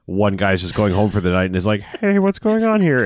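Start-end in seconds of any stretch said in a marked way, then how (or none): 1.8-3.0 high, slow, alarmed call in an odd voice; a guard caught off guard, voice jumping up; startled. Retold or imitated. Soldier surprised on his way home.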